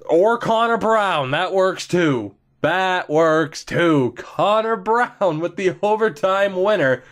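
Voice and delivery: slow, drawn-out delighted approval. Real, not acted. Gamer watching the overtime winner go in, delighted. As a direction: savour it happily.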